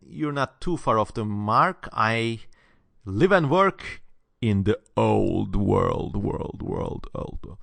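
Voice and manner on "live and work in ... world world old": mock echo. Fading echo on "old world.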